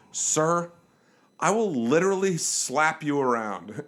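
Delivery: slow, deliberate warning; teacher quieting class. Retold or imitated. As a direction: firmly halt someone like a teacher, slowly. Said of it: "put my hand up like a teacher".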